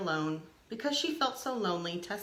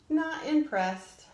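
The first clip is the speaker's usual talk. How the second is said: snooty dismissal; 7 semitones higher, 5 dB louder, slower than usual. Acted. Top dogs snub Tessa.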